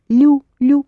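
лю, лю with a softened, palatal L; soft l. Shown as a demonstration. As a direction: drill a soft L in лю, high and loud. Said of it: "pronounce it soft".

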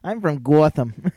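put-on broad Boston accent, Gotham as kɔɹθəm. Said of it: "Instead of Boston".

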